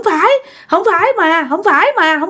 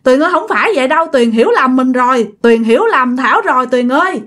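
acted weepy explanation, pitch raised; earnest, plaintive higher voice; tearful, sincere pleading; 5 semitones higher than usual. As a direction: plead your innocence to a friend as if crying. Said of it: "vừa nói vừa khóc mà rất là thật lòng".

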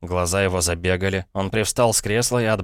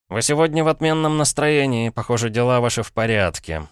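usual speaking voice

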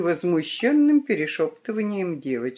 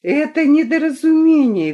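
urgent interruption; 9 semitones higher, 6 dB louder than usual. A narrator's reading. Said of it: "перебила его Валентина Григорьевна".

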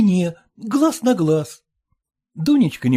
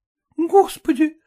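mild exclamation; 7 semitones higher than usual. Acted. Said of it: "воскликнула Дунька".

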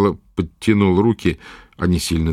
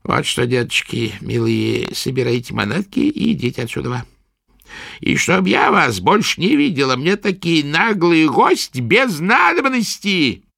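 put-on scornful old witch; 6 semitones higher than usual. A narrator's reading. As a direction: drive the guests off like a spiteful crone. Witch orders them out.

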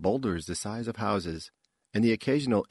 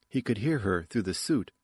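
ordinary delivery, nothing marked

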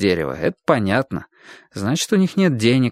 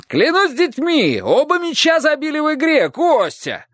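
delighted shout. A narrator's reading. Roof man answers Kostya, joyful high yell. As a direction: swear it with glee. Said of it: "восторженно крикнул мужчина".

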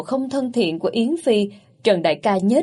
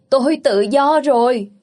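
loud, higher cry of freedom; joyful shout; 4 semitones higher, 4 dB louder than usual. Acted. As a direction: shout it out, overjoyed. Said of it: "nhảy cẫng lên hét vang".

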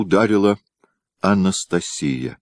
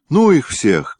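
put-on higher, louder boyish cry; boyish shout; 10 semitones higher, 6 dB louder, slower than usual. A narrator's reading. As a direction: shout it out like an eager boy. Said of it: "по-мальчишески крикнула Мария".

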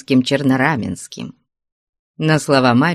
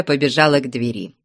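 plain reading voice

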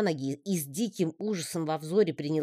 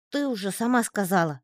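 паучок; 6 semitones higher than usual. A narrator's reading. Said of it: "отозвался Гишка".

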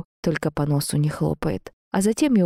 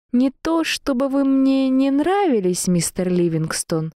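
high, stretched-out stalling; slow, word by word; 9 semitones higher, slower than usual. A narrator's reading. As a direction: draw out each word to buy time. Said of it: "Я начала медленно произносить каждое слово".

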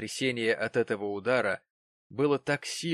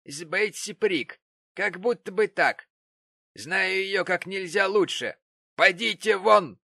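loud scornful order; 8 semitones higher, 7 dB louder than usual. Acted. Gamp continues sneering, then orders out.

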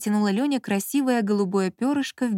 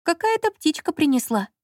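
sly innocence; 8 semitones higher than usual. Acted. Lola feigning innocence.

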